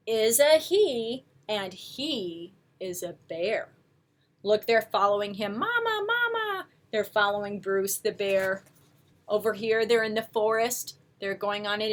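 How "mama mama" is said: high little gosling voices; goslings calling mama. Acted. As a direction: chirp it like baby geese following. Goslings follow the bear.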